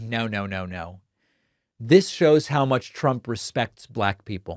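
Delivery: dead-serious, sincere, straight-faced, earnest delivery. Imitating a trump supporter defending him: imitating a straight-faced supporter. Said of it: "with a straight face".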